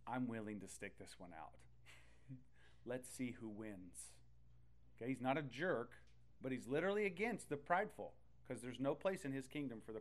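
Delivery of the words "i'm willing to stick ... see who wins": slow, lower, teasing dare; God's challenge. Retold or imitated. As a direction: dare them slowly, face to face. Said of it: "he's literally against your face going".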